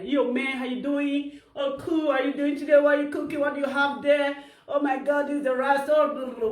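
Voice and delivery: lightly imitated American small talk; mock American English. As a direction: put on a casual American accent, mockingly. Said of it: "America, now you guys".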